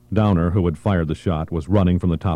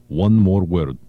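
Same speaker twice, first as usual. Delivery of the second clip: quiet menace; 3 dB louder, slower than usual. Acted. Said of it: "he said through his teeth".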